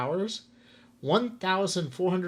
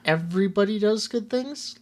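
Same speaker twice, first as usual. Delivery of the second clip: higher, questioning repeat; incredulous echo; 5 semitones higher, 3 dB louder than usual. Retold or imitated. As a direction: throw it back as a doubtful question. Challenges co-host's sweeping statement.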